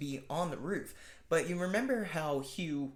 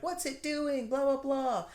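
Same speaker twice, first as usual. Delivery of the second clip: much higher panicky friends; high frantic voice; 10 semitones higher than usual. Retold or imitated. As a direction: squeak it out in alarm. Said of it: "they're like".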